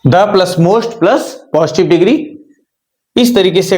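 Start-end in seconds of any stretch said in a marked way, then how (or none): 0.1-2.2 slow, whispered spelling-out of the formula; teacher whispers each part to class while writing, slow whisper; whispered dictation. Shown as a demonstration. Whisper it slowly, part by part. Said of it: "teacher writes formula on board".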